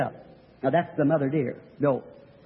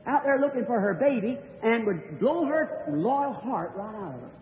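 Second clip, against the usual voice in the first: sorrowful inner voice; 3 semitones higher than usual. Retold or imitated. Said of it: "I thought".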